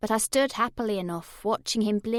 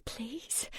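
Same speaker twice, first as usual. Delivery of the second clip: moaned plea; 14 dB quieter than usual. Acted. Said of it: "low moaning sound ... turn into the words".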